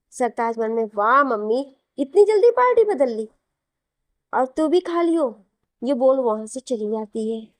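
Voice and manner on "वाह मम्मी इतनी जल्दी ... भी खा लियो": sarcastic, jumping much higher and louder on the middle; sarcastic jibe. Acted. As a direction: needle her for switching sides so fast. Son mocks mother switching sides.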